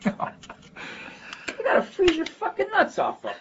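high-pitched imitated Chicago pal, incredulous; Chicago neighborhood accent. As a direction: rib a friend in a high Chicago street voice. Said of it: "literally how a lot of my friends still talk".

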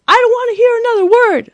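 high, loud mock yell; angry father's outburst. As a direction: blow up as the fed-up dad. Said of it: "that's what he said".

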